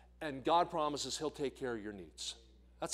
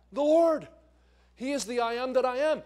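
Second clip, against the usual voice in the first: much higher and louder, ringing out The Lord; preaching shout; 9 semitones higher, 8 dB louder than usual. Acted. Preacher to congregation, naming the Lord, in a ringing shout. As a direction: proclaim it to the whole church.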